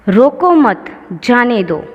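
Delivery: "रोको मत" as one phrase, then "जाने दो"; group रोको with मत, pause, then finish; pause after मत. Shown as a demonstration. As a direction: break after मत, letting "जाने दो" stand apart. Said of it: "उसके बाद अल्प विराम लगाया गया है".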